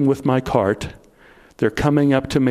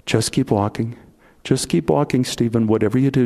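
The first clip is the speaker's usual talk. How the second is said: menacing voice in ear; 5 semitones lower than usual. Retold or imitated. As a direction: keep it low and close, like a gun at his head. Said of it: "that voice came into my ear".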